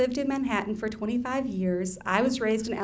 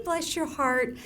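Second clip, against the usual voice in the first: Southern phrase; 4 semitones higher than usual. Shown as a demonstration. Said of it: "a Southern lady's yo mama".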